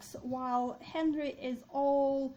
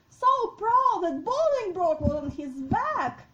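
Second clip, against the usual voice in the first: raised pitch, loud theatrical indignation; indignant king; 6 semitones higher, 9 dB louder than usual. Acted. Deposed king hears the usurper rode his horse, indignant. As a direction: cry out in wounded royal pride. Acting Richard's reaction to the news.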